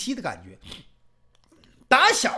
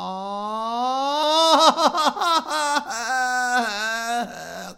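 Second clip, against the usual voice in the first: long, loud staged sob; theatrical sobbing wail; 5 semitones higher, 5 dB louder than usual. Acted. Jinxiu breaks down weeping on his knees, hammed-up wail. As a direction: howl out the grief in one long breath. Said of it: "哭了".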